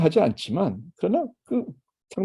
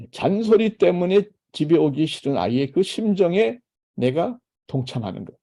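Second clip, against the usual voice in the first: ordinary delivery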